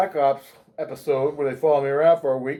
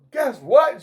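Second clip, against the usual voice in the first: loud teaser; 7 semitones higher, 4 dB louder than usual. Retold or imitated. Loud staged announcement.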